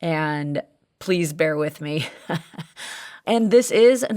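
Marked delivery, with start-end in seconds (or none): 0.0-2.1 hoarse, gravelly voice worn out from cheering. Real, not acted. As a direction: speak with a raspy, strained throat. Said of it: "my voice sounds very gravelly".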